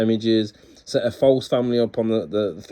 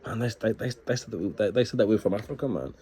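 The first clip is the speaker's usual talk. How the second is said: imitated outraged thoughts; 2 semitones higher, 4 dB quieter than usual. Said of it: "I'm thinking".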